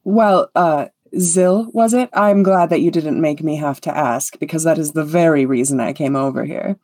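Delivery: lightly voiced vain performer; self-important bard. Conceited bard agreeing to perform with the elf, lightly grand. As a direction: bestow a treat on your adoring public. Moss accepts invitation to perform.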